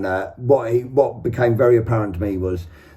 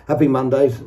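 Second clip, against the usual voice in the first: laughing correction. Real, not acted.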